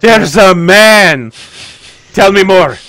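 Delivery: high, loud and drawn out; excited outburst. Acted. Katya demands to hear about the man, thrilled. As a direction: pounce on it with hammed-up eagerness. Katya reacts eagerly to confession.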